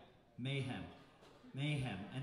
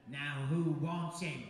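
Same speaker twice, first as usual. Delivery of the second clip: louder, slow crowd-hyping call; mock MC whipping up the crowd; Aussie fellow calling out to the crowd, loud and slow; riling up the crowd; 7 dB louder, slower than usual. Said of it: "and he said".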